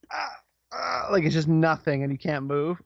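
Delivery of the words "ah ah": stifled scream. Retold or imitated. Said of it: "you're like".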